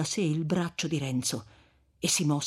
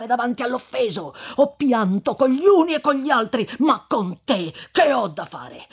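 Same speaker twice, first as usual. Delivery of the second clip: stern, rising and louder in reproach; severe; 4 semitones higher, 5 dB louder than usual. Acted. Friar refusing to hear Renzo's vengeance, severe and loud. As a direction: lay into him with stern reproach. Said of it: "con voce non meno severa".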